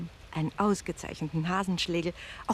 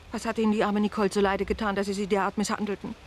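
angry; 3 dB louder, faster than usual. Acted. Landlady rails at the guests.

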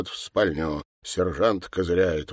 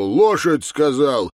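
loud, higher repeat of a command; barked order; 6 semitones higher, 5 dB louder, slower than usual. Acted. Sergeant pinning Mikhail down, barking an order. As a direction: bark it at the man under your boot.

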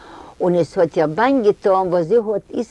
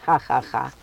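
soft read-out "ha, ha, ha" laugh; a quiet, lightly voiced laugh; Isaac laughs; 5 semitones lower, 4 dB quieter, faster than usual. A narrator's reading. Isaac laughing at the factory in every room, a soft mock laugh. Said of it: "lacht Isaac".

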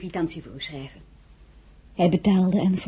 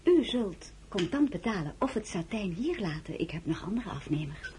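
quiet firm threat; 8 dB quieter than usual. Acted.

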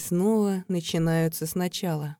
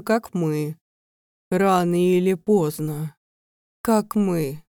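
lightly voiced creature; 3 dB louder than usual. Creature speech, hoarse servant.

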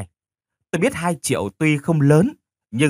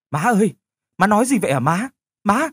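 higher, louder panicked questions; alarmed daughter; 8 semitones higher, 4 dB louder than usual. Acted. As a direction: ask in rising panic. Daughter alarmed by bad news. (hoảng hốt hỏi dồn)

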